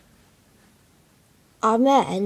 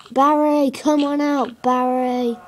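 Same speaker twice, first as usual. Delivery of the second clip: calling the pet higher and louder; 3 semitones higher, 4 dB louder, slower than usual. Real, not acted. Coaxing Barry the pet out, calling. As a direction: call him out sing-song.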